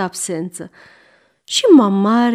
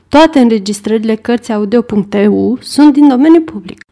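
louder, brisk recording credit; announcement; 6 dB louder, faster than usual. Real, not acted. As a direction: read out a notice briskly. (anunț rostit tare)

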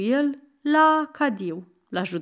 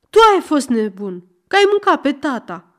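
angry accusing shout; 4 semitones higher, 6 dB louder, faster than usual. Acted. Aron keeps yelling.

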